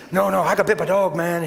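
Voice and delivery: quick Southern patter, earnest; fast, insistent Southern imitation; talking fast. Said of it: "He's talking fast and he's".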